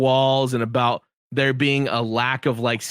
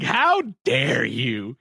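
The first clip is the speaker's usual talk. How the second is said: slow, drawn-out mock indignation; hammed-up offended protest; mock outrage; much slower than usual. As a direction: stretch each word as if scandalized. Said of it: "where I was like".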